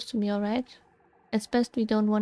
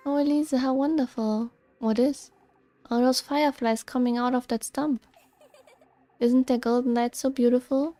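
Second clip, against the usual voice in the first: lightly voiced enchanted girl; 3 semitones higher than usual. Rosemarine marvelling at fireflies to Elise, lightly dreamy.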